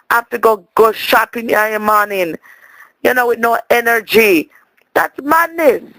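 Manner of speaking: Jamaican auntie telling a story, patois throughout; Lena character voice. Acted. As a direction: hold the island auntie voice, chatty.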